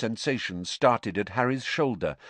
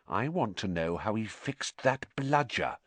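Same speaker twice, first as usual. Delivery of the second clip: dark suspicion; 6 dB quieter than usual. Acted. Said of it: "said Hermione darkly".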